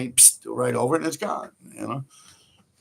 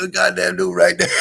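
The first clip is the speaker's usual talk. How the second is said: startled shout; 3 semitones higher, 6 dB louder than usual. Retold or imitated. Caught tagging by the truck owner.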